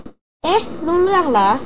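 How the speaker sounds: a startled woman caught out; gaping surprise. A narrator's reading. Christina realising the old man understood her, stunned. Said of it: "คริสติน่าอ้าปากค้าง".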